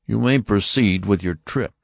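high, stern voice of an alien officer; Martian officer. Acted. Martian officer warning the passengers, stern and high. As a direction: announce it like a cold interrogator.

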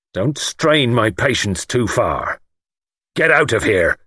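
slow warning rising to a command; changed, menacing voice. A narrator's reading. Lord orders young man out, controlled anger. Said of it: "His voice had changed when he spoke".

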